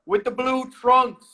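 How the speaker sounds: slow, high boxing ring announcer; enunciating voice. Pretend. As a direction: draw out the fighter's name, over enunciating. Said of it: "I wanna try my enunciating voice".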